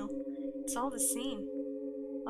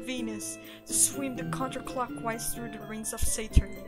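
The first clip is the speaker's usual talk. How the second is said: cheesy NASA recruiter pitch; announcer voice. Acted. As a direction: hype up the crowd like a presenter.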